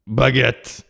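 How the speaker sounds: loud, hammed-up French accent; French accent impression. Capping a best French impression, exaggerated French accent. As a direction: punch the word out in mock French. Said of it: "That was my best French impression".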